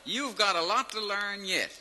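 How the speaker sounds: a hint of a laughing officer; amused officer.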